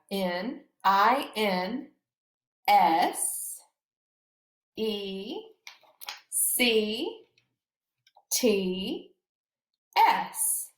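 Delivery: slow spelling with long pauses; each letter called out separately; spelled letter by letter. Shown as a demonstration. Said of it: "I'll spell it one more time".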